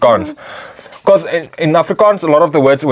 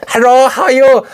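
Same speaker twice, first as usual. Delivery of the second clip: put-on much higher pitched Asian accent; sweet high Asian accent voice; 12 semitones higher, 3 dB louder than usual. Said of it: "He's like".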